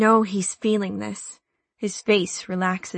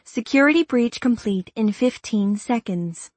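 car warning voice; 3 semitones higher than usual. Acted. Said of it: "the car voice says".

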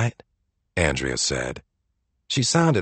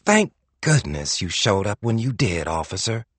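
gushing. Acted. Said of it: "Andrea gushed".

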